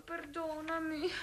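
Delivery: slow, hushed and ashamed; ashamed, hushed apology. Acted. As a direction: barely breathe the apology. Ashamed apology to her lover.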